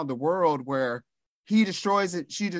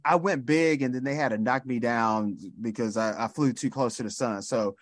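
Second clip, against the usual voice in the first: mock Cliff bragging; 4 semitones lower than usual. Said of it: "his stories are always".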